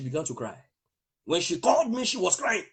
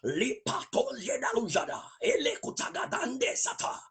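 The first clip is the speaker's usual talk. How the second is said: speaking in tongues. Real, not acted. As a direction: pour out the tongues in prayer. Praying in tongues.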